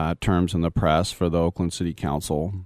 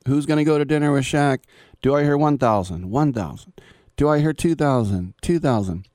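lightly voiced auctioneer, higher pitched and calling out bids; 6 semitones higher than usual. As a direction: mimic an auctioneer rattling off bids. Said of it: "an auctioneer guy goes".

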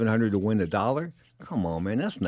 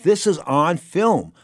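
imagined outburst; 4 semitones higher, 3 dB louder than usual. Retold or imitated. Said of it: "he'd have been able to say".

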